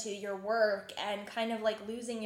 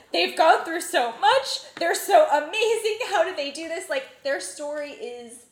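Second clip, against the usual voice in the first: loud, high, drawn-out fan gushing; gushing amazement; 7 semitones higher, 10 dB louder than usual. Retold or imitated. Telling friends how the documentary won her over, gushing amazement. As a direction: retell being blown away, stretching the words big.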